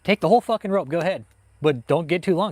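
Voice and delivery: high, loud mock taunt from the feds. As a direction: egg him on like a smug agent handing out rope. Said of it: "They'll be like".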